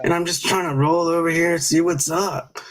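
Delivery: lightly voiced stoner buddy, easygoing; a hint of a relaxed stoner friend; Stormy's voice. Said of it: "how my friend Stormy talks".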